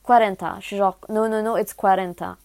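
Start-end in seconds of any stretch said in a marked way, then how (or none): 0.0-0.6 louder, amateur Spanish accent; emphatic schoolroom Spanish accent. Shown as a demonstration. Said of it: "jugez pas mon accent espagnol". 1.1-2.4 put-on insistent amateur Spanish accent; emphatic schoolroom Spanish accent. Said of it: "jugez pas mon accent espagnol".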